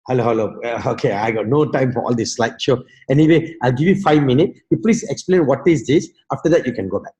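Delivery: a low, bored brush-off; dismissive prospect. Retold or imitated. Prospect cutting off the slideshow, bored. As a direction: wave him away like a busy man.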